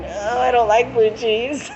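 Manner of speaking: high, slow, laughing denial; a giggly no, drawn out; laughing protest. Retold or imitated. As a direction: play her playful denial. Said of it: "I'm sitting there going".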